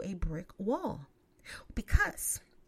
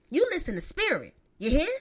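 Big Mama; 2 semitones higher, 4 dB louder than usual. Real, not acted. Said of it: "I sound like Big Mama".

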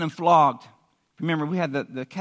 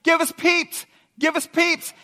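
high, loud crowd demand; mock shouting; 11 semitones higher, 4 dB louder, slower than usual. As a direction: chant it like an insistent crowd. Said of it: "they just kept shouting".

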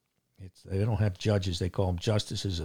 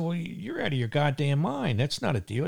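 raised pitch, indignant retelling of telling off the judge; higher-pitched, indignant pushback at the judge; retold angry retort; 5 semitones higher than usual.

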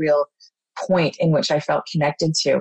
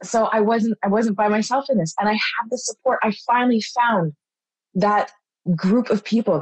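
fighting tears; 4 semitones higher than usual. Real, not acted. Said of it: "I'm gonna try to get through this without crying".

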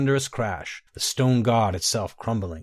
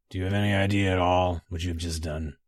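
lower, flat, icy voice; cold reproach to the queen; icy flat question; 4 semitones lower than usual. A narrator's reading. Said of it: "he said finally, flatly, coldly".

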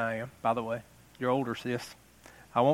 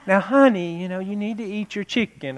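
sweet mom tone; 3 semitones higher, 3 dB quieter than usual. Retold or imitated. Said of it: "you didn't use that tone".

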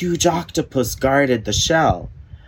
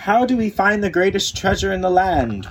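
wondering; 9 semitones higher than usual. Acted. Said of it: "wondered Gallant".

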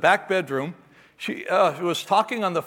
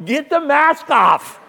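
louder and higher, slow frantic plea to himself; panicked; 10 semitones higher, 8 dB louder, slower than usual. Retold or imitated. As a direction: gasp it out in a panic. Panicked dad, screaming child.

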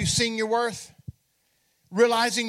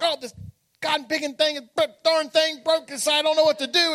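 higher, exasperated rant, fast at the end; retold frustration; 5 semitones higher than usual. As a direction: vent like a fed-up husband over a broken bike. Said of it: "and I'm frustrated".

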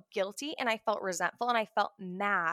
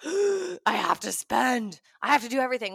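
frantic urge; 2 semitones higher, 4 dB louder than usual. Retold or imitated. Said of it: "all of a sudden we're like".

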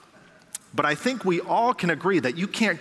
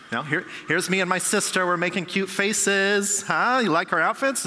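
higher, eager show-off chatter; excited gushing; 5 semitones higher than usual. Acted. Churchgoer in the lobby pushing photos on you, excited gushing. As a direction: gush over the photos like a proud poster.

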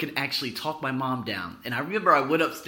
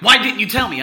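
imitated angry mom's yell; loud, raised-pitch demand; screaming; 7 semitones higher, 10 dB louder than usual. Mom confronting her son about the car, screaming. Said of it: "she just started screaming".

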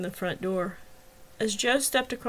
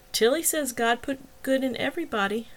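mildly emphatic, a little higher on TILLY SAYS GOD; 4 semitones higher than usual. A narrator's reading. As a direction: press the point on GOOD IN EVERYBODY with understated conviction. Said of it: "Travis said emphatically".

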